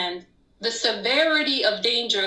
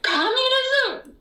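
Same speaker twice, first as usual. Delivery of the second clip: even higher, slow, falling Communism?; berserk repeat; 3 dB louder, slower than usual. Retold or imitated. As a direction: drag out Communism? with a falling outraged tone. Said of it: "I went berserk".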